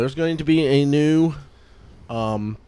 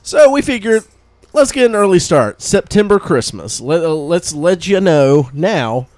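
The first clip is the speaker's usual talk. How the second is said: put-on excited kid; 4 semitones higher, 4 dB louder than usual. Talking excitedly to Santa.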